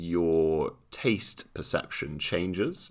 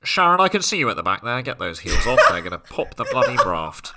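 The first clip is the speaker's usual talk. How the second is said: higher, louder, fast scolding call; flight attendant yelling; 5 semitones higher, 5 dB louder, faster than usual. Retold or imitated. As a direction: call out to a passenger at the back. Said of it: "The plane's crash is like".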